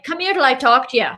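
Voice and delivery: lilting put-on Irish accent; imitated Irish relatives. Host quoting mom and grandpa, mimicked Irish accent. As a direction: mimic an Irish elder calling someone over. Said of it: "my mom and my grandpa are like".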